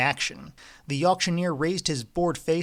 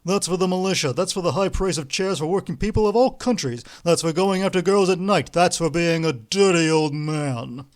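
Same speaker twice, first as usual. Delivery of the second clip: louder, hammering each line; punishing rebuke; 3 semitones higher, 5 dB louder than usual. A narrator's reading. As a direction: drive every phrase like a punch. Ostap punishing with blows.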